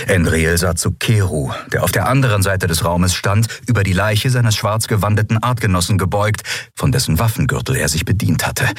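usual speaking voice

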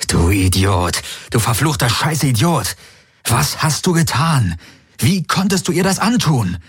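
rising, high self-directed outburst; self-reproach. A narrator's reading. Garland curses himself for hurting Kirai, climbing.

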